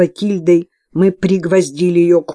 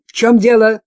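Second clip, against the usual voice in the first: sharp question; 5 semitones higher, 6 dB louder than usual. A narrator's reading. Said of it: "резко спросила Изабелла".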